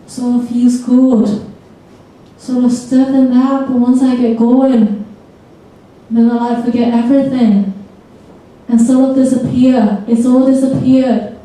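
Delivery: put-on northern English accent; Billy. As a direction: Durham lad's northern English speech. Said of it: "He says".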